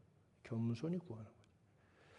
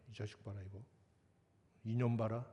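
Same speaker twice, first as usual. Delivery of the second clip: angels grumbling; 4 semitones lower, 3 dB quieter than usual. Retold or imitated. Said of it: "천사들이 옆에서 아마 그럴 거야".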